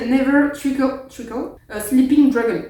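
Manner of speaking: English motto in a bad French accent; self-mocking French accent in English. Shown as a demonstration. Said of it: "mon accent est nul à chier".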